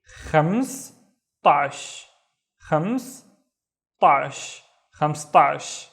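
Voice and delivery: خمستاش said slowly, syllable by syllable; slow model word. Shown as a demonstration. Teacher models خمستاش slowly for learners. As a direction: drag out خمستاش with a clear خ. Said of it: "and finally".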